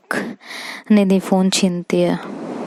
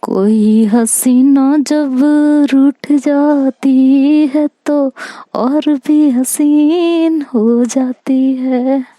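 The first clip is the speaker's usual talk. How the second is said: slow, high shayari-style flattery; flirty recitation; 6 semitones higher, 4 dB louder, much slower than usual. Retold or imitated. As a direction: woo her with a drawn-out line. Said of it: "कहते, "अरे मोहतरमा". (a touch of filmy romance)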